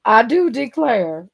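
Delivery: put-on slow, drawn-out Southern belle accent; a lightly played Southern belle, stretched out. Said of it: "I just turned into a Southern belle".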